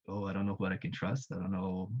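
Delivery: soft, unsure musing; doubtful. Retold or imitated. Worried believer voicing a doubtful, uncertain mood. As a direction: sound like you can't trust anything. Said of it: "very uncertain".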